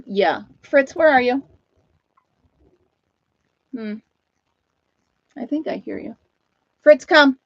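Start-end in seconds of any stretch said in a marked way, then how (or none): 0.6-1.4 calling out for the dog across the yard; raised voice, hunting for the dog. Real, not acted. Woman calling her dog outside. 6.8-7.4 loud high call to the dog. Real, not acted. Owner calling her dog in from the lawn, loud.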